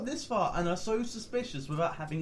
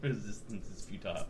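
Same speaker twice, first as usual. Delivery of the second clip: flat, low monotone machine voice; emotionless robot; 11 semitones lower, 7 dB quieter than usual. Pretend. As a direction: drone it like a cold robot. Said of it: "He does have a nice monotone voice".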